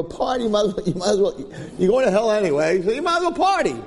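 the tempter's wheedle rising to go party; tempting Satan. Retold or imitated. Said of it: "He says like this".

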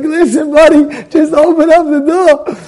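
high, loud, slow urgent begging; urgent plea. Retold or imitated. Man urging the janitor to open the shop door. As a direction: push him to open up now.

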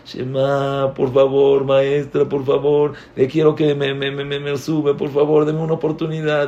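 mild mock-crying plea; pleading, stammering schoolkid, half-acted; retold tearful begging. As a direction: beg the teacher in a lightly whining singsong. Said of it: "llorando y pidiendo y todo".

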